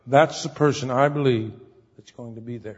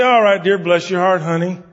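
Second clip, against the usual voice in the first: soothing honey tone; mock tender husband; sweet-talking wife; 5 dB louder than usual. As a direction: coax her gently, all right dear. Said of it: "when she starts like that, you say".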